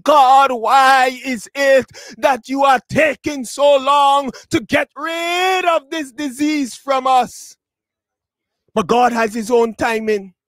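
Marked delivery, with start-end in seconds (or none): 0.0-7.6 drawn-out plea to God; pleading question. Acted. Wondering believers asking God about the disease, pleading. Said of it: "and we're wondering".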